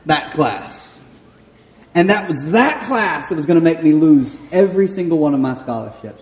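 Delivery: ordinary talk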